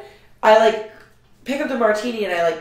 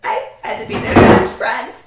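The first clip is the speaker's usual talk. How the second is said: laughing sarcasm; 8 semitones higher, 5 dB louder than usual. Retold or imitated. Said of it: "I was like".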